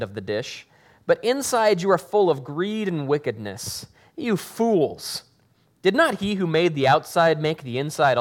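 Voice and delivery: steady, earnest Bible reading to the congregation; scripture reading. Acted. Pastor reading the gospel aloud to the congregation, earnest. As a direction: read the passage aloud with weight.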